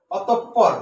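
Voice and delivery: a teacher's emphatic, measured অতঃপর; syllables marked off. Shown as a demonstration. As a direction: punch each syllable of অতঃপর. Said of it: "তোপ হচ্ছে বদ্ধাক্ষর".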